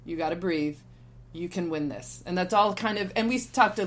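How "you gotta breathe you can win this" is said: quiet, steady reassurance; calm coach. Retold or imitated. Coach Robert calming his player before the restart, softly. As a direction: settle her down gently. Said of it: "really subtly just saying".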